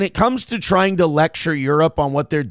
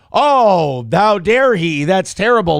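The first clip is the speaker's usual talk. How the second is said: mock outrage; 3 semitones higher, 5 dB louder, slower than usual. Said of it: "expect us to go".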